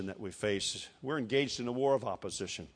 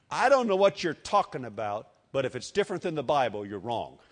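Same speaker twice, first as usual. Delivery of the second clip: confident retort; 4 dB louder than usual. Acted. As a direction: state it firmly to a smug doubter. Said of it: "You can say that with utmost confidence".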